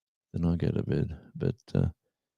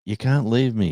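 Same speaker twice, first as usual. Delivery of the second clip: dog's plea voiced; 6 semitones higher than usual. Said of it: "some routine where".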